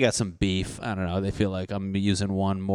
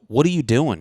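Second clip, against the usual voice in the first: higher, louder mock-outraged question; retold yell; 4 semitones higher, 7 dB louder than usual. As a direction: yell it at a friend in disbelief. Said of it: "I used to yell at my friend".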